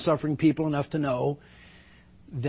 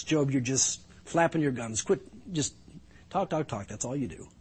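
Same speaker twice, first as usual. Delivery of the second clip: softer, dismissive brush-off; dismissive scoff; 5 dB quieter than usual. Retold or imitated. Zophar waving off Job's talk, dismissive and softer. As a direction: wave him off as a windbag. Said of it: "In other words".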